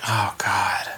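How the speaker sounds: whispered dread; mock dread whisper. Podcast cohost whispering dread at a trailer. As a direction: breathe it out in mock horror.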